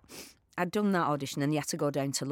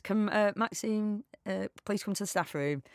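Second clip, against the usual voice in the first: higher-pitched staff announcement voice; put-on tannoy page, pitched up; loudspeaker announcement; 5 semitones higher, slower than usual. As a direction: imitate a halting call over the loudspeaker. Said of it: "the loudspeaker, it says".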